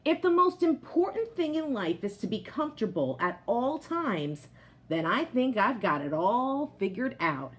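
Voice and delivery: lively picture-book voice for the potato; reading to children. A narrator's reading. Teacher reading a picture book aloud to her class, lively storytelling voice. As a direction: tell it like a proud, cozy couch potato.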